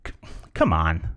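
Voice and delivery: low, no-chance scoff; dismissive disbelief. Shown as a demonstration. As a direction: dismiss it as impossible, pitched low. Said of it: "there's not a fat chance".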